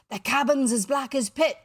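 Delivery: put-on high, loud, frightened accented voice; almost gibbering. A narrator's reading. Pirate describes the dark cabin to Hook, almost gibbering. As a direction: blurt it out in terror. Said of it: "almost gibbering".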